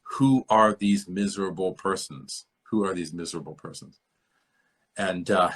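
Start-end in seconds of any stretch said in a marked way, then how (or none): 0.0-2.5 slow, deliberate goblin king demand. Retold or imitated. Reading the goblin king's greeting to the dwarves, slow and weighty. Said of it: "And he says". 2.7-4.0 brisk, offhand repeat of the line; quick goblin king repeat. Retold or imitated. Repeating the goblin king's line to students, quick and light. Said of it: "And he says".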